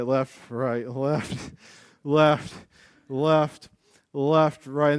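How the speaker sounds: spaced-out marching count; demonstrating a drill cadence. Shown as a demonstration. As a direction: call out the steps in rhythm. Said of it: "start in a cadence".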